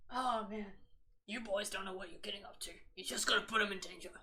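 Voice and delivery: lightly voiced stern father scolding, fast at the end; mock deep dad voice. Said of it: "I can't do those deep voices".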